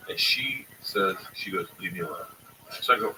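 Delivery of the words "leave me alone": low, much softer sleepy grumble. Retold or imitated. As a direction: grumble it half asleep.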